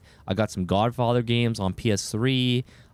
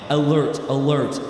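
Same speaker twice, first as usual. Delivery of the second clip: mock alarm; 4 semitones higher, 4 dB louder than usual. Mock alarm over the raid.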